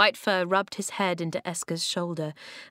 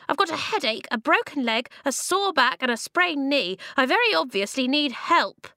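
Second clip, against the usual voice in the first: high, louder squeaky complaint; 7 semitones higher, 4 dB louder than usual. A narrator's reading. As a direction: reel off grievances in a weedy squeak. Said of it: "the voice squeaked".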